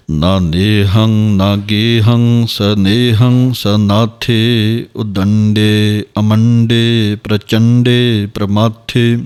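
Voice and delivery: slow, measured chanting of verse; slow Gurbani path recitation; scripture recitation. Shown as a demonstration. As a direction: recite each line slowly and evenly, as in path.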